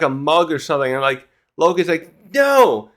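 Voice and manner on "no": high mock cry of panic; acted, drawn-out yell of refusal; freaking out. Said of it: "he's freaking out as much as he can".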